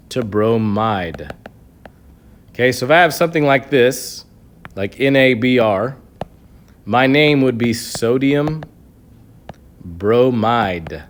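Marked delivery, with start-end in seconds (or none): 0.1-1.3 bromide drawn out slowly, lower pitch; slow stress on bromide. Shown as a demonstration. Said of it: "change it from bromine". 7.7-11.0 sodium bromide said slowly, with a pause before bromide and a falling end; pause, then land bromide for the students; slow stressed name. Shown as a demonstration. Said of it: "The way I remember that".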